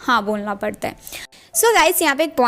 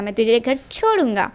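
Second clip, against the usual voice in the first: firm order. Acted. San ordering Eugene that he will drop him home, firm falling command. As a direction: lay it down as an order, no question. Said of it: "मैं तुझे order दे रहा".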